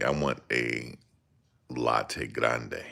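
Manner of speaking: put-on fancy latte order, quiet and proper; mock bougie. Man at Starbucks trying to sound bougie, mock-posh order. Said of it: "trying to be bougie".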